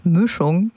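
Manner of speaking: "Mischung" quoted slowly with a regional ü for i; regional pronunciation. Retold or imitated. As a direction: say "Mischung" as "Müschung", with a rounded ü. Host quotes colleague's regional pronunciation.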